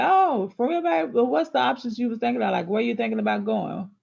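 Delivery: mock eager girlfriend. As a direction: chirp it like an over-eager partner. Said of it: "and you say".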